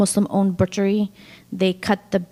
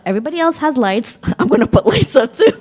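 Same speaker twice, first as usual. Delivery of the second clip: put-on quick, high, eager kid voice; a child determined to join in; childlike excitement; 6 semitones higher, 5 dB louder, faster than usual. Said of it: "'cause I was like".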